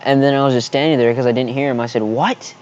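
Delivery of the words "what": mock yelled question, shooting up at the end; half-volume imitation of a yell; retold yell. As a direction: call it out with a sharp upward swoop. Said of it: "I, like, yelled at him".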